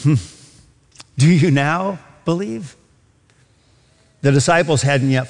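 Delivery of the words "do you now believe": slow, measured question with a long pause; pointed questioning inflection. Acted. Preacher voicing Jesus's reply to his disciples, slow questioning inflection. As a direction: draw the question out, pausing before the last word. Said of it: "hear the inflection in his voice".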